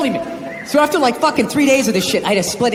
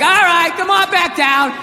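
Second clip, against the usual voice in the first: raised-pitch imitation of a placating father; drawn-out mock reassurance; coaxing dad; 4 semitones higher, slower than usual. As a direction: coax a sulking kid downstairs. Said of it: "he tried to smooth it over".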